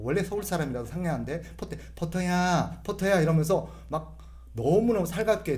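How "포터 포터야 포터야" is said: drawn-out, gentle call to the dog; sister-in-law coos to the dog, slow and gentle; sweet, slow call. Retold or imitated. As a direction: slowly coo the dog's name Porter. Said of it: "말투가 너무너무 상냥하고".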